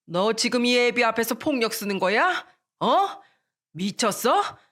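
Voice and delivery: rising angry scold from the father; father losing his temper. Acted. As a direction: snap at the son over the broken cup. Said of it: "역정을 내던". (역정 내는 아버지)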